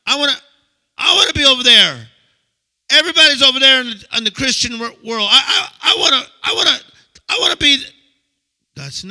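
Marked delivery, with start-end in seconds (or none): 0.0-7.8 put-on much higher, louder kid-like whine; whiny childish plea. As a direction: beg like a child left out. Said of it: "I'm like".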